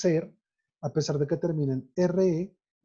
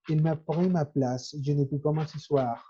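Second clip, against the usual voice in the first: a bit slower, mouth held more closed; lightly Frenchify it, slowly. Shown as a demonstration. Teacher demonstrating a French tone to students, slower. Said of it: "un poco más cerrada la boca en todo lo que dice".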